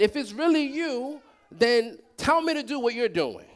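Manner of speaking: a touch of a tearful plea; pleading Peter. Retold or imitated. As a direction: voice cracking, near tears, pleading. Peter pleading to Jesus, voiced.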